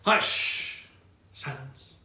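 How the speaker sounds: hushed. Real, not acted. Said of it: "GM quieting the table".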